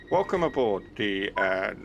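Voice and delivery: mock train announcement. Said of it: "should I do it properly?".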